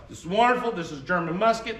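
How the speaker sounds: a touch of royal excitement, mocked; delighted king. Gunmakers' deal pleases King George, mildly mock-delighted.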